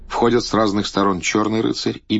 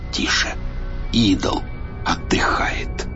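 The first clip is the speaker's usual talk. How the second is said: whispering. Acted. Тише, идол отдыхает.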